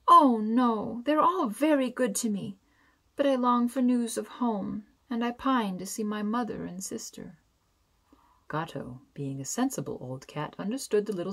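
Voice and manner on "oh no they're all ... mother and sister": higher, louder tearful pleading, voice breaking; a girl sobbing out her homesickness; between sobs. A narrator's reading. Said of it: "answered between sobs".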